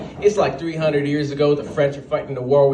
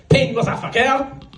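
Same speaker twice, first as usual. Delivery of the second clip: high yelled French taunt; battle cry; 7 semitones higher than usual. Acted. French fighter hitting an Englishman with a baguette, high mock yell. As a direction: shout it as you strike.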